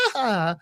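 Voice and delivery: imitated happy little cry. Boy reaching the bathroom at last, imitated happy noise. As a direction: voice a relieved boy's happy sound, slightly high. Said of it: "he's all happy".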